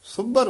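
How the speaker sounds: ਸੁਭਰ said as su-bhar, not ਸੁਭਾਰ; short vowel in ਸੁਭਰ, no long aa; correct Gurbani pronunciation. Shown as a demonstration. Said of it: "ਇਹ ਸੁਭਾਰ ਨਹੀਂ ਬੋਲਣਾ". (ਸੁਭਰ ਛੋਟੀ ਮਾਤਰਾ ਨਾਲ ਬੋਲੋ)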